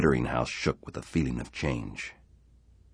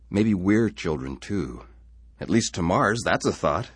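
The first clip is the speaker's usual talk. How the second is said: laughing; 6 semitones higher, 5 dB louder than usual. Acted. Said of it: "he laughed".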